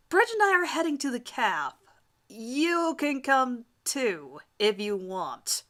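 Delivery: reluctant invite. Acted. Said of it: "He seems quite reluctant about the last part".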